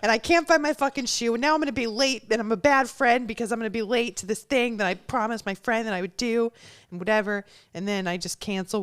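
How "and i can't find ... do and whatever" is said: spiral into self-blame; spiralling panic rant. Retold or imitated. Acting out the bad morning to the friend, louder, frantic.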